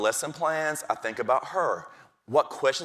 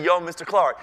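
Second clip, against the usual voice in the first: put-on cocky kid; 5 semitones higher, 7 dB louder than usual. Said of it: "He said".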